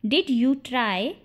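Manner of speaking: slowed, word-by-word question; slow model repeat. Shown as a demonstration. Teacher repeats the question for English learners, slowly.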